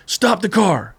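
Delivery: retold angry command; imitating angry guard. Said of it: "he would get more mad".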